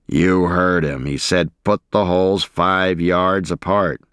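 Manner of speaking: growled. Acted.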